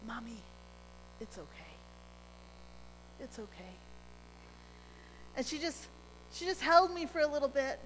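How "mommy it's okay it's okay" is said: put-on soft, gentle child's comfort; gently. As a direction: hush it softly like soothing mommy. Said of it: "she said ever so gently".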